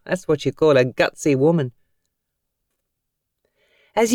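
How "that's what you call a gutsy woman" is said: light laugh then amused remark; mild laugh. Acted. Tom watching the gutsy woman, with a light laugh. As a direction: chuckle at her nerve. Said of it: "Tom laughed out loud".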